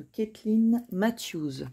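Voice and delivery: name said in a French speaker's English accent. Shown as a demonstration. Tarot host showing viewers her deck, English accent. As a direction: attempt the English pronunciation of Caitlin Matthews. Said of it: "mon super accent anglais".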